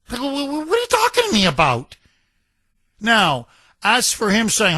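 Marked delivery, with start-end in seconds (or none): 0.1-2.0 much higher, fast, stammering disbelief; incredulous. Real, not acted. Host reacting to the governor's answer, high sputtering disbelief. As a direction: sputter as if you can't believe your ears.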